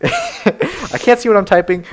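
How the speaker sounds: high, slowed retort through laughter; retold complaint breaking into giggles; laughing retort. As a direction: protest while cracking up.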